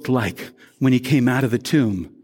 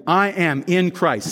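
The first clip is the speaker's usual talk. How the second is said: slow, deliberate group declaration; leading a recitation; 3 semitones higher, slower than usual. Shown as a demonstration. Pastor asking worshippers to join in, slow recitation. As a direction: lead them through it slowly. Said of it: "Say that with me".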